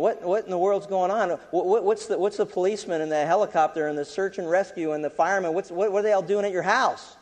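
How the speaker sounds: mildly freaking out. Retold or imitated. Boss questioning the boy, mock-flustered and stammering. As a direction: imitate a boss getting flustered. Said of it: "this guy's freaking out".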